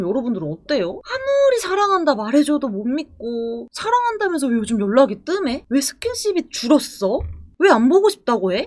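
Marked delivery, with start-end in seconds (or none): 3.7-8.6 mock snapping. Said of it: "이렇게 쏘아붙이는 애인".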